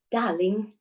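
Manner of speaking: tentative British accent attempt. Shown as a demonstration. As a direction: have a careful go at a British accent. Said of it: "very British with a British accent".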